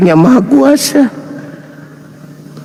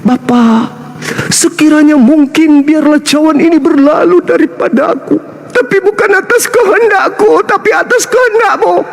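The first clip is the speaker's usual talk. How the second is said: higher, pleading mock prayer; 5 semitones higher than usual. Quoting Jesus's prayer in Gethsemane, as a mock plea. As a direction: whine the prayer up high. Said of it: "Dia berdoa".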